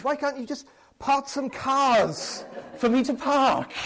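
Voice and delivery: exasperated complaint to God, half-joking; mock rant at God. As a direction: vent at God like a fed-up driver. Ranting at God about parking.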